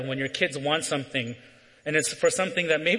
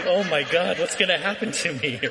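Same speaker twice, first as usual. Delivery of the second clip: put-on little kid's comic panic; lightly hammed-up dread with a laugh; mock freaking out. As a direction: imitate a worried kid, half laughing. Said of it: "I'm freaking out as a little kid".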